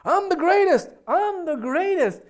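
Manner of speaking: high, loud yell imitating a jubilant champion; top-of-lungs boast. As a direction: crow it out, stretching the repeat. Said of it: "yelling at the top of his lungs".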